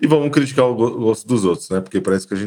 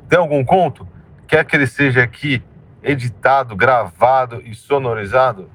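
promo announcement. Acted. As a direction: sell it energetically.

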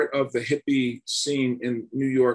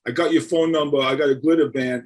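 a touch of a New Jersey tough guy; lightly voiced Italian-American hood; Stallone-style tough guy. Phone caller recruiting for a glitter band, light Jersey tough guy. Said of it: "The guy sounded like Sylvester Stallone".

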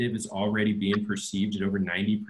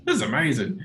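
higher-pitched mock amazement; amazed first taste; 5 semitones higher, 4 dB louder than usual. Friend imagining a first bite of spaghetti, mock amazed. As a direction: imitate a first-bite thrill.

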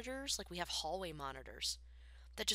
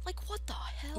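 outraged; 11 semitones higher, slower than usual. Real, not acted. Outraged at phone rules.

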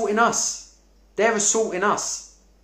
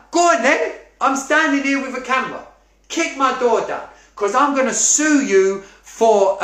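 defiant challenge; 4 semitones higher than usual. Shown as a demonstration. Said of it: "tell 'em your truth".

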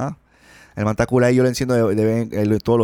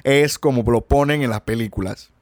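put-on Cuban accent; 3 semitones higher than usual. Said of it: "yo pensaba que los cubanos eran".

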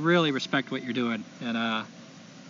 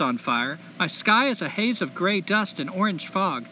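put-on light SoCal accent reading a letter; California accent. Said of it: "I'm gonna try to do a California accent".

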